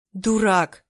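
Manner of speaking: loud angry shout of worry. A narrator's reading. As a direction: yell it at him in fright. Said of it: "закричала я на него". (крик на него, злой и испуганный)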